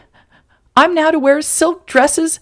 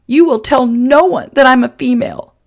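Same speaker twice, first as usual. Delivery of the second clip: higher, louder angry woman; angry threat; 6 semitones higher, 4 dB louder than usual. Acted. Woman threatening the man to keep her secret. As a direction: warn him hard, meaning every word.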